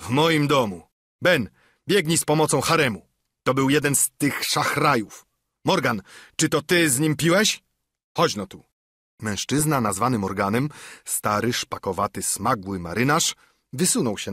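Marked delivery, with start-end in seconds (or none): 0.0-8.6 louder, higher angry tirade; furious that a pirate drank here; enraged. Acted. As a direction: Silver storming at his men. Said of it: "rozjątrzył się Silver".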